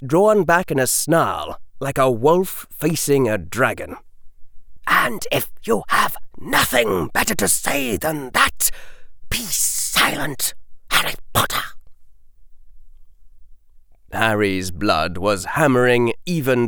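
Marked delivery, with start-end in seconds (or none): 4.9-11.6 cold command. A narrator's reading. Lucius orders silence.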